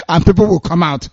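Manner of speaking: words broken by real laughter; laughing. Real, not acted. Host ridiculing a commissioning before election, laughing. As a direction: crack up halfway through the line. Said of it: "I shouldn't be laughing".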